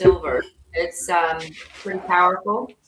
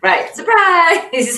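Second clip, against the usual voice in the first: drawn-out, higher, louder surprise; mock surprise; 10 semitones higher, 9 dB louder, much slower than usual. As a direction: sell the big reveal slowly. Mocking Trump's surprise moves.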